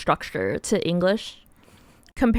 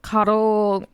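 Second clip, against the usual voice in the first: talking around candy; words round a piece of candy; mouth full; 3 dB louder than usual. Real, not acted. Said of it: "I have candy in my mouth".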